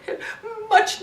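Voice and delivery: ordinary talk, nothing marked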